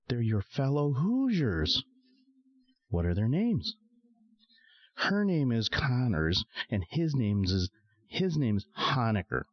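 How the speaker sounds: a hint of a chatty Midwestern busybody; Hazel, chatty Hoosier lady. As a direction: gossip like a nosy Indiana lady, pitch up. Hazel's dialogue voiced.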